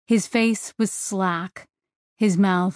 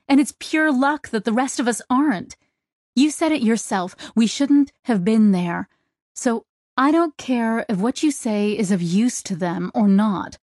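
raised, pitch up, pleading and angry; teary anger; 3 semitones higher than usual. Acted. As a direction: push through tears at the captain. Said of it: "irritably flicking away tears".

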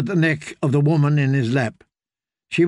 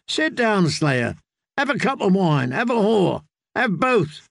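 coaxing, high-pitched tipsy offers; jovial drunken singer; 5 semitones higher than usual. Acted. Singer urges friend to sit and drink, merry coaxing. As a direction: urge him merrily to join in.

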